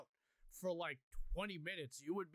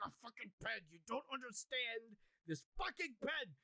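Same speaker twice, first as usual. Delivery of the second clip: retold exasperation; 5 semitones higher than usual. Telling his wife she doesn't understand, mock exasperated. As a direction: insist with mock-desperate exasperation.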